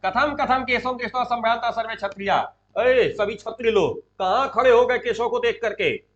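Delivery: moderately loud acted reprimand; Duryodhana shouting. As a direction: berate the assembly for standing up. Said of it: "चिल्लाता है".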